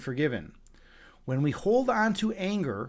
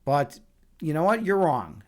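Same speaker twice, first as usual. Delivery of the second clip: retold smug non-apology, toying with the listener; a little smug. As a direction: needle them with an insincere sorry. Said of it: "I was a little bit smug".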